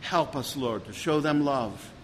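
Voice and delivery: steady, earnest pastoral prayer; closing prayer. Acted. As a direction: pray it over the congregation, even and humble.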